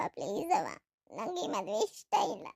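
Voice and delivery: low, soft, slow tearful plea. Acted. Daughter pleading with her mother, soft and tearful. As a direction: beg quietly, close to tears.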